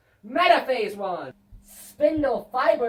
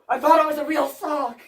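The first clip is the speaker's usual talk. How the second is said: giggling through the line; laughing; 2 semitones higher, 5 dB louder, faster than usual. Real, not acted. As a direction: laugh while saying it.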